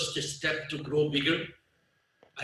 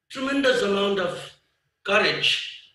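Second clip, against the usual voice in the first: "courage" set apart by a pause and pitched higher; emphasis on courage; 4 semitones higher than usual. Real, not acted. Speaker telling what helped the company open new frontiers, emphasis on "courage". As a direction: raise and isolate the word "courage". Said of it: "I want to emphasize the word courage".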